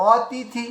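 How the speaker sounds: অতিথি with each letter fully sounded; clear pronunciation. Shown as a demonstration. Sanskrit teacher showing how letters combine, clear pronunciation of অতিথি. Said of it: "পরিষ্কার উচ্চারণ বেরিয়ে আসলো".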